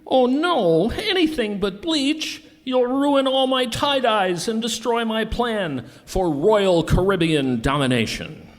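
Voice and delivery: high-pitched villain's wail; melodramatic panic. Acted. Villain begs hero to spare the tie-dyes, panicked. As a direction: plead in hammed-up, high panic.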